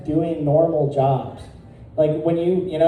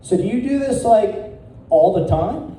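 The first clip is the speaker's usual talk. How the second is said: put-on quoting the teen; 5 semitones higher than usual. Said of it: "and he goes".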